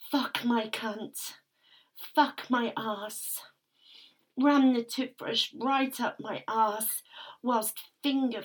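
intimate, aroused first-person storytelling; breathless submissive narrator lost in the moment; breathy erotic narration. Acted. Narrator reliving the scene for listeners, aroused and intimate.

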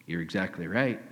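quiet confirmation. Acted. Jesus quietly confirming the woman's words, soft and low. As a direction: drop it down, matter-of-fact.

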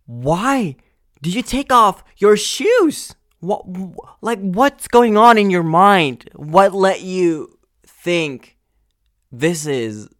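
very high, loud, incredulous yelling; screaming why at the shoeless man; outraged shriek. Real, not acted. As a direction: shriek the question in disbelief.

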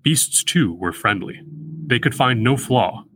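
measured poem recital; slow poetry reading. Shown as a demonstration. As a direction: read the line slowly, savouring each foot. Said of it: "line five sounds the most organic".

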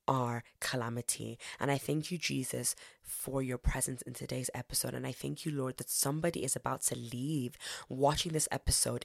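hushed, earnest prayer to Jesus; closing prayer. Acted. Host praying for listeners to close the episode, hushed earnest prayer.

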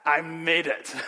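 a hint of a triumphant child, Dad called out high; lightly voiced girl crowing Dad; mock kid's victory cry; proud little girl. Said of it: "she turns around and says".

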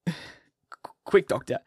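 breathless whispered urgency; hurried whisper. A narrator's reading. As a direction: whisper it fast, desperate. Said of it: "he said, hurriedly".

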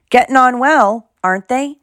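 proud gardener showing off; happy. A narrator's reading. Hagrid happily shows the children his pumpkins. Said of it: "said Hagrid happily".

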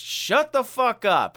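high, loud, slow mock order; imitated fed-up command; blunt retort. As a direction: hit each word hard. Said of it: "pretty much hit her with that".

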